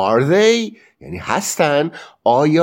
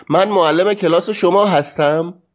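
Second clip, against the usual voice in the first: "من معلم کلاس شما هستم" as a higher-pitched question; questioning tune; 5 semitones higher than usual. Shown as a demonstration. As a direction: keep "هستم" up at the end, asking. (لحن سوالی «من معلم کلاس شما هستم»)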